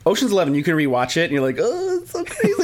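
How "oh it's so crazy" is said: high squeaky amazement; mock amazement. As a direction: play being blown away.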